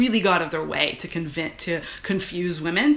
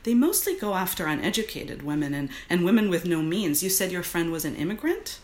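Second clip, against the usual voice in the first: urgent activist; 2 semitones higher than usual. Acted. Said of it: "her activist voice".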